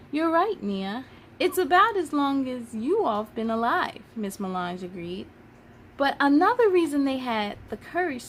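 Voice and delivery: put-on reading a children's book aloud, lively; story narration. Storyteller reading a history picture book to children, lively. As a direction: read it like storytime for kids.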